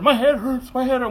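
put-on child's mild complaint. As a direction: lightly imitate a child saying it hurts. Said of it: "Went from that to".

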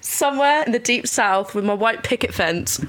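put-on Southern American belle accent. Dreaming of a film role, Southern belle accent. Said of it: "a beautiful Southern belle somewhere".

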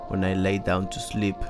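usual speaking voice

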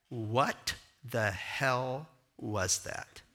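slow, drawn-out disbelief; a dancer stunned after the show; stunned young man. Retold or imitated. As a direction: let each word hang in shock. Young dancer confronting after performance.

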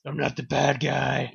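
slow, drawn-out protest, unshouted; Daredevil's mock protest. Daredevil protesting to a frightened kid, slow mock protest. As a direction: draw it out without shouting. Repeats Daredevil's line lower.

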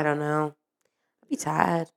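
unvoiced tired whisper. Real, not acted. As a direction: whisper it to yourself. Whispered aside.

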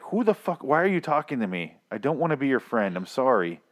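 high-pitched put-on disbelief; mock incredulous rebuff. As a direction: brush off a stranger, exaggeratedly baffled. Imagined rebuff of the storyteller.

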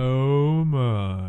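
hammed-up seductive sigh; sultry voice. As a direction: swoon it out theatrically. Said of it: "our sultry, sultry voice".

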